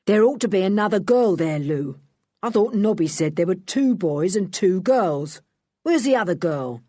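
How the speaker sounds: a light villain calling across the cave; a touch of gruff Dan. Acted. Dan calling to Lou about the missing girl, mild gruff shout.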